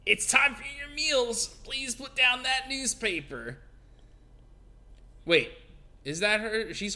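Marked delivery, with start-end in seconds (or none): 0.1-3.6 higher, slow prim maid voice; Typhoid Mary voice. Acted. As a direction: play a fussy caretaker. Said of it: "you were doing Typhoid Mary".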